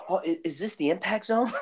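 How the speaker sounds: laughing through the quote. Retold or imitated. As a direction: giggle while quoting it. Retold funny quote.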